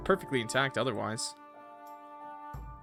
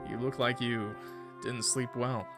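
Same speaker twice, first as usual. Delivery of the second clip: visitor's character voice; 2 semitones lower, 3 dB quieter, slower than usual. Acted. Voices visitor in game dialogue.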